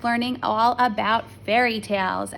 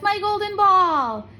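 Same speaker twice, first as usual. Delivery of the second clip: high, loud and slow, overjoyed; excited; 9 semitones higher, 5 dB louder, slower than usual. A narrator's reading. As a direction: cry out with joy at the ball. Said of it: "said the princess".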